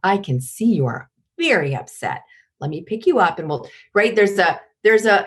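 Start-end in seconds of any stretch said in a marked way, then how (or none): 0.0-3.7 calm queenly firmness. Shown as a demonstration. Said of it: "a queen catches that hand and says".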